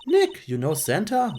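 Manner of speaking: high, slowed-down astonished question; acted high-pitched amazement; amazed sidekick. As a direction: ask it in wide-eyed wonder. Sidekick amazed Nick knows Santa.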